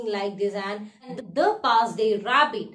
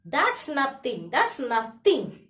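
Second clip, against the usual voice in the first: slowly repeated, a touch of the frog; slow, drawn-out reassurance; 2 semitones higher, slower than usual. Retold or imitated. Frog brushing off the ox, slow and reassuring. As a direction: stretch each nothing out. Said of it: "the frog replied to the ox".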